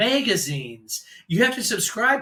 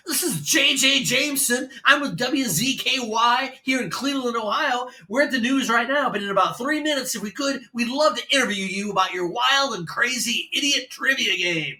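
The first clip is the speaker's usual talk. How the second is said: much higher, upbeat radio patter; disc jockey voice; 5 semitones higher than usual. Retold or imitated. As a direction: sell it like a morning zoo DJ. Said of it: "disc jockey sounding voice".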